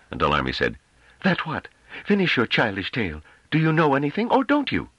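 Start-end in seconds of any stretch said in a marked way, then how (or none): 1.2-4.9 high, sneering female voice; contemptuous councilwoman. A narrator's reading. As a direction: goad him, rising to a peak. Dall'Army taunts him.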